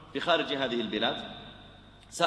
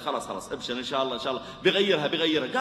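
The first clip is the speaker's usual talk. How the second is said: calming; 3 semitones lower, faster than usual. Acted. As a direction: settle him down gently. Calming the angry man.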